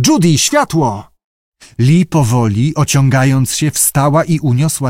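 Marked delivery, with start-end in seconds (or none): 0.1-1.1 high, drawn-out call for help; urgent call. A narrator's reading. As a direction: call the order out, stretched and raised. Abe nagli o światło. (naglące, przeciągłe wołanie)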